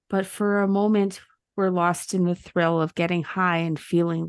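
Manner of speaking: rhythmic poem recitation; poem reading. Acted. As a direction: read it like a rhyming poem. Reads ChatGPT poem aloud.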